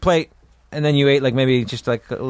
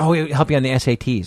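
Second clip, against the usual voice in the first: usual speaking voice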